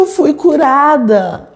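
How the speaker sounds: "Eu fui curada" said slowly, stressing each word; insistent claim. Retold or imitated. Insisting healing to disbelieving family.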